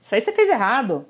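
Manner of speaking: mock critical listener interrupting. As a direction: cut them off, fault-finding. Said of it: "E um ouvinte crítico".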